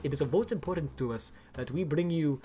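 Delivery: put-on light Indian accent, corporate CEO pitch; a mild Indian-accented keynote voice, half-laughing at the end; Indian accent impression. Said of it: "he's got, like, an Indian accent".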